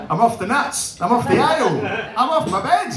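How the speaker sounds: building excitement. Acted. Building celebration in the pub.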